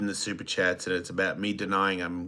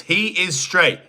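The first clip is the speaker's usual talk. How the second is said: quoting Nikki; 9 semitones higher, 8 dB louder than usual. Retold or imitated. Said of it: "Nikki Love says".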